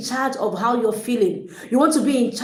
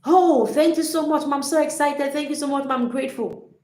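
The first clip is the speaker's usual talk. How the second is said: higher, gushing delighted thanks; 4 semitones higher than usual. Shown as a demonstration. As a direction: overflow with grateful excitement. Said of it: "How are you gonna respond?".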